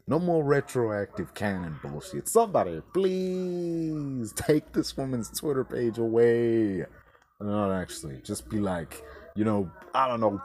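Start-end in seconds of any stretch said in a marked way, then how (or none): 2.3-6.8 mock plea. Pleading with the world at large.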